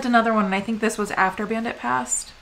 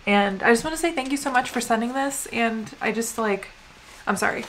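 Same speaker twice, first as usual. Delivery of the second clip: softer, thanking through held-back tears; choking up; 3 dB quieter than usual. Real, not acted. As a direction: let the voice catch as it fades. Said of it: "I'm not gonna cry".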